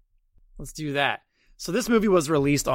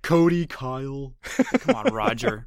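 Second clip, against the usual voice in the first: mock exclaim; 4 semitones higher, 5 dB louder, slower than usual. Mocking Clemens naming kids.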